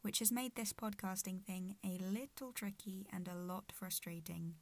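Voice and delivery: talking through a clenched jaw; words squeezed past a sore jaw; gritted teeth. Real, not acted. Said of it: "speaking through gritted teeth today".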